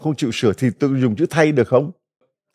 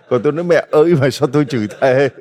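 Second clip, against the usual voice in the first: laughing, louder and quicker; amused protest; 5 dB louder, faster than usual. Real, not acted. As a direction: protest through a laugh, picking up speed. Joking defence, breaks into laughter.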